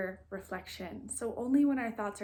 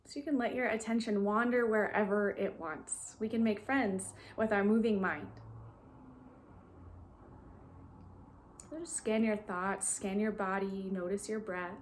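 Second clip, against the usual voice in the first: calm, even guiding voice with long pauses; guided meditation. Real, not acted. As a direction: gently lead listeners into stillness, leaving long silences.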